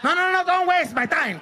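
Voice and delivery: high, loud exasperated yell; yelling dad. Retold or imitated. Dad yelling at his sons on the field, loud and high. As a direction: shout him down like a furious dad.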